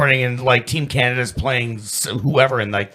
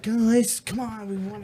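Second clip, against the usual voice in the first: Stamkos impression; 9 semitones higher, 8 dB quieter than usual. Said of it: "Steven Stamkos is just like".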